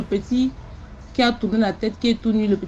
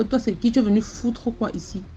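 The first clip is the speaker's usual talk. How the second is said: hostile demand. Retold or imitated. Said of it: "Elle me parle comme ça".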